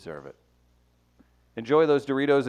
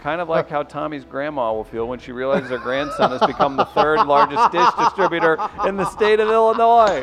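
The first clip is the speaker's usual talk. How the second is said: laughing reading; 2 semitones higher, 3 dB louder than usual. Acted. Reading listener submission, laughing.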